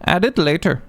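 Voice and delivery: put-on Swedish accent. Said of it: "Sorry, my accent is terrible".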